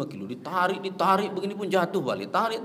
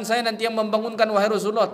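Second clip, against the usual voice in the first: Bilal promising; 6 semitones higher, 5 dB louder, faster than usual. Retold or imitated. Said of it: "Bilal mengatakan".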